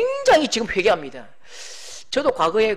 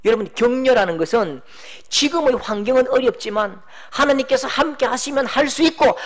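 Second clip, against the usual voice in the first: normal talking voice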